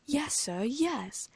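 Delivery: high eager house-elf squeak; a small elf overjoyed to see Harry, squeaking high; squeaky Dobby. A narrator's reading.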